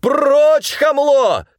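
very high, loud insult; man shoving the manager away; furious shout. A narrator's reading. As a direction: scream it as you shove him.

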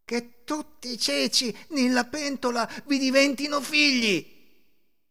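high, cried-out curse; shouted curse. A narrator's reading. Beggar cursing the woman who refused her, shouted curse. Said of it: "le gridò contro".

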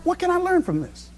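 inner questioning. Retold or imitated.

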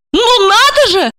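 shrill high indignant cry; a woman exploding in offended shock; outburst. A narrator's reading. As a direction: she bursts out, outraged. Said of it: "взорвалась она".

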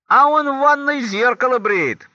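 put-on high, loud child's voice; детский ответ. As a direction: pipe it up high and loud like a kid. Ребёнок отвечает маме в анекдоте. (высокий громкий детский голос)

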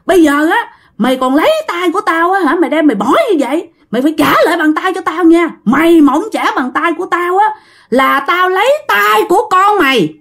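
hammed-up irate ghost making demands; acted fury. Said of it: "Ông tức quá trời luôn".

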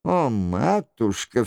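ordinary delivery

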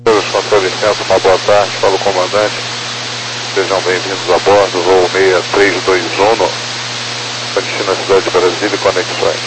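captain's PA welcome; calm pilot announcement voice; plane cabin announcement. Acted. Captain welcomes passengers aboard.

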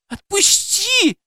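put-on very high, slow squeal of a frightened girl; high-pitched slow plea to let go; squeaking. A narrator's reading. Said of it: "запищала Кира".

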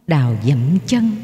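usual speaking voice

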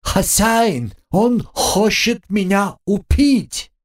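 very high, slow panicked cry; panicked squeak. A narrator's reading. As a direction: shriek for your master's help. Pet panics at alligator.

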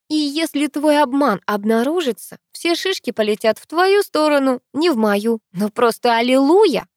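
high-pitched gleeful run; delighted. A narrator's reading. Sister relishes the coming adventure, delighted. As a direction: build to a loud, rapturous finish. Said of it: "восторженно продолжила Геля".

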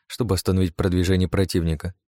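ordinary delivery

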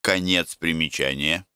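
usual speaking voice

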